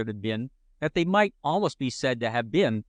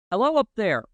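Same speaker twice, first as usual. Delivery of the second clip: calling out loudly, higher; 7 semitones higher, 4 dB louder than usual. A narrator's reading. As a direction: call up to a boy in a tree. Postman calls up the tree.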